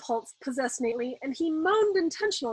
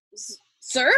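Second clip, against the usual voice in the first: stunned; 7 semitones higher, 4 dB louder than usual. A narrator's reading. Stunned colonel.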